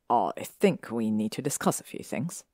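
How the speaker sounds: serious but excited. Acted. Draco opening a serious talk with Hermione, earnest and eager. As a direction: say it gravely but eager inside. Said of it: "he said serious but excitedly".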